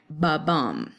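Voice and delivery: "ba" light, "bum" stressed; a heartbeat beat, "ba" unstressed and "bum" stressed; iambic ba-bum. Shown as a demonstration. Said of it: "makes this noise like".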